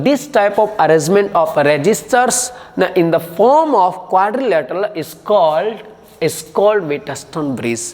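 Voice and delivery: slow, even dictating pace, fading at the end; slow dictation. Shown as a demonstration. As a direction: dictate slowly so they can write. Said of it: "Once again".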